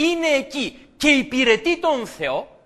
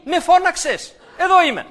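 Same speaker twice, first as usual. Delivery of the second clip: put-on higher and louder, eager boy; eager reply; 6 semitones higher, 5 dB louder than usual. Samuel running to the priest, eager and loud. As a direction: rush in keen to help.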